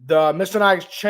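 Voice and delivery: ordinary delivery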